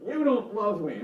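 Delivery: put-on high-pitched whiny child, accusing; whiny, accusatory kid. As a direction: play the wounded child pointing blame. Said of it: "almost accusatory".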